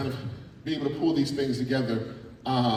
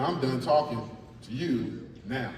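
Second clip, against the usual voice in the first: walk off; 4 semitones lower, 5 dB quieter than usual. Shown as a demonstration. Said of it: "The walk off".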